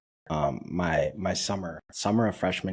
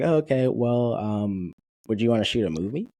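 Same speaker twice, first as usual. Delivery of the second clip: bright, quick and higher, tossing it out casually; breezy offer; 5 semitones higher, 4 dB louder than usual. Retold or imitated. Martha offering a movie role, quick and breezy. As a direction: pitch it lightly and fast.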